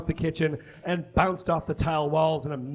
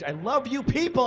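affectionate; 9 semitones higher than usual. Acted. Comic on stage greeting crowd.

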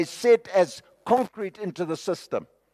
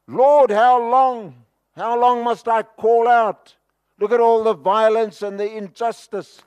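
prophet crying out; 2 semitones higher than usual. Acted. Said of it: "The true prophetic voice crying out".

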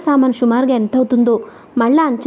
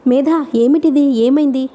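anxious question; 3 semitones higher than usual. Acted. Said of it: "ఆదుర్దాగా అడిగాడు".

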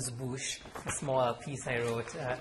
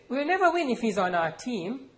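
loud, much higher sneering complaint; indignant complaint; 11 semitones higher, 7 dB louder than usual. Acted. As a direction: scoff at your little brother. Brother complains to mother.

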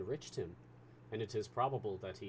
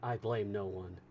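perfect calmness; 4 dB louder than usual. Acted. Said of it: "with perfect calmness".

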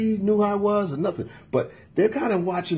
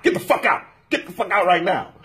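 angry ordering. Retold or imitated. Imitating the employee ordering the customer out, angry. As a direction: act out someone repeatedly ordering a person out.

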